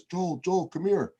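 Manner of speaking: put-on calling out high in a thick Latin accent; Salvador Perez accent. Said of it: "it's in his thick accent".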